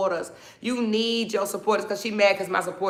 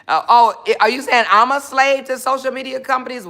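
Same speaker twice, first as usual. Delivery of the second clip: offended disbelief; 3 semitones higher, 4 dB louder, faster than usual. Real, not acted. Offended by a comment.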